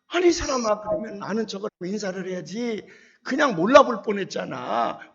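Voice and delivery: playful reproach, slowing at the end; fond scolding. Retold or imitated. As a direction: chide him warmly for not saying hello. Scolding old student affectionately.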